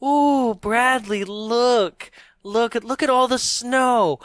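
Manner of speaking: high, cooing mom voice; mock excited mom. Mom showing Bradley the fake snow, high cooing voice. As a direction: coo at the child with wonder.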